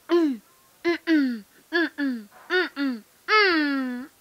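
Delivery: short mock-crying hums; imitated baby fussing. Child imitating ti bebe, mock fussing. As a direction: whimper wordlessly like a pretend baby.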